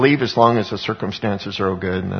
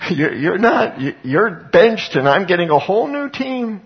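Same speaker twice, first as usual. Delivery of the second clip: playful excited benched; 8 semitones higher, 4 dB louder than usual. Retold or imitated. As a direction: drag out benched, then push on. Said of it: "What God says is".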